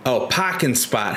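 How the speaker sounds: imitated Boston accent. Streamer tries out a parking line in a Boston accent. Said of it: "my Boston accent".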